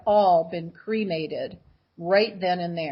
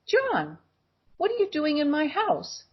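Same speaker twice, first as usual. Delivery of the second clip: higher-pitched, puzzled challenge; startled question; 7 semitones higher than usual. Retold or imitated. Woman to figure in her doorway, startled and questioning. Confronting an apparition at home.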